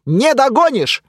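loud high taunt; taunting yell. Acted. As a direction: tease him as you run. Hero taunts while fleeing.

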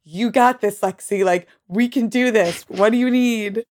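mock-frantic reassurance; panicked encouragement. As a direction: imitate yourself nervously cheering someone on. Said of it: "The terror in my voice".

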